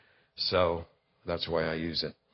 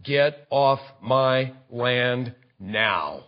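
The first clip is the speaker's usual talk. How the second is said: snarl; 5 semitones lower, 5 dB quieter, slower than usual. Pretend. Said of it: "he snarls".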